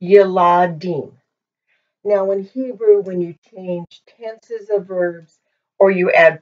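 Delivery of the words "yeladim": Yeladim with an "ah" in the middle, ye-LA-dim; careful pronunciation. Shown as a demonstration. Teacher introducing the plural, Yeladim said with care. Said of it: "This is pronounced".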